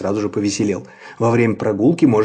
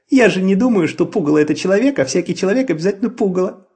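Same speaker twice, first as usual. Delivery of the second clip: put-on peeping baby chick; 7 semitones higher, 3 dB louder, faster than usual. A narrator's reading. Chick explains quickly.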